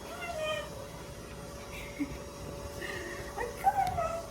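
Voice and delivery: dog voice. Real, not acted. Coaxing the puppy.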